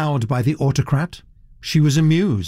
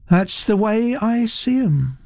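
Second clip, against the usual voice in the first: placid; 10 semitones higher than usual. Acted. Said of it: "said Naomi placidly".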